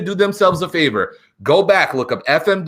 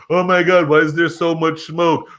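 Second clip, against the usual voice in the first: mocking internet complainers; 4 dB louder than usual. Mocking internet fans who whine about smoke, put-on voice. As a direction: parody the fussy online critic. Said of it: "see how the internet is going to blow up".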